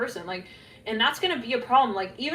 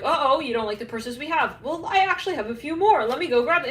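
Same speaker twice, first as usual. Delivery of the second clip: pushy salesman; 5 semitones higher, 5 dB louder than usual. Retold or imitated. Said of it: "it's like the salesman who knows".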